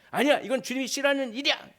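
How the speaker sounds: shrill-high, loud desperate no; high loud refusal. Acted. Believer refusing Satan, very high and loud. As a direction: cry out against temptation.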